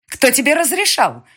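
high, loud snapping demand; snarl. Acted. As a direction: snarl it at him. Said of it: "рыкнула на него".

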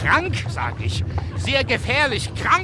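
put-on angry friend shouting the child is very sick; insistent shout. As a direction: drive the word home. Hammering the news home.

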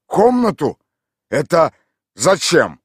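high, loud baffled question; bewildered. A narrator's reading. Mikhail Ivanovich, baffled, answers the lodger in a high loud voice. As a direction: sound thrown by the question. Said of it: "сильнейшее замешательство".

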